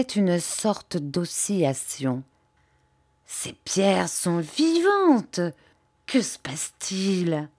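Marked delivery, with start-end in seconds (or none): 3.3-7.5 voix étranglée. Acted. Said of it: "d'une voix étranglée".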